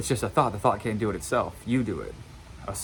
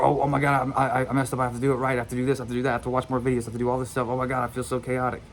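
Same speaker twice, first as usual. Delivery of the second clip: mock panic; 2 semitones higher, faster than usual. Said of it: "you start obsessing over".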